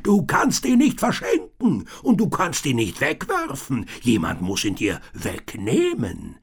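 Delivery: desperate tinker yelling; bellowing on. A narrator's reading. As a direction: keep roaring the warning. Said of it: "brüllte er".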